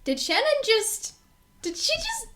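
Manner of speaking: outraged can-she-really-mean-it; incredulous. Retold or imitated. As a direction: pitch climbing in disbelief. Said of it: "And I was like".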